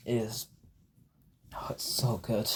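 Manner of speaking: breathless whisper of delight; awed whisper. Real, not acted. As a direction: whisper it like the toy is sacred. Awed by the perfect Henry.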